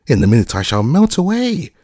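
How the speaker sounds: high, loud shriek; witch screaming. A narrator's reading. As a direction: scream it at the girl in panic. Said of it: "she screamed".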